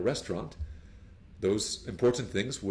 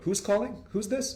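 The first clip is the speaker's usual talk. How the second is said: short and curt; 12 semitones higher than usual. Shown as a demonstration. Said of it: "Very short one".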